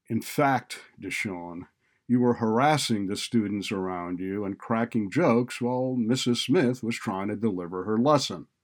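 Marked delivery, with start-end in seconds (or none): none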